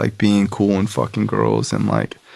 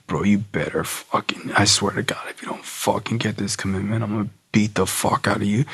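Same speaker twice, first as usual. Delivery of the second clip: quiet menacing threat; 6 dB quieter than usual. Retold or imitated. Sponsor warning him to take the commitment, quietly menacing.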